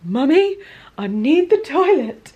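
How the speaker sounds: high, loud little-dog voice pleading; dog's voice. Retold or imitated. Dog asking his mummy for the toilet, high and urgent. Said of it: "he was like".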